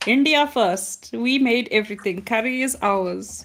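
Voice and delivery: playing a proud nationalist in a mild Indian accent; mock Indian accent. The inner party voice boasting in a light Indian accent. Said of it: "I can do the accent 'cause I'm Indian".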